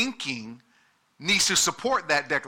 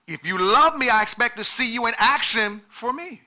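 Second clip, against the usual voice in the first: pushed louder with a laugh to wake the room; louder, emphatic repeat; 5 semitones higher than usual. Shown as a demonstration. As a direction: punch it harder for the back rows. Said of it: "So let me say".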